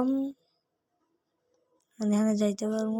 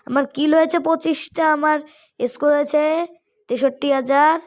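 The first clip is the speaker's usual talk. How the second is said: higher and louder proud announcement; excited announcing; 5 semitones higher, 4 dB louder than usual. Real, not acted. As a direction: call out the score, thrilled. Announcing final score proudly.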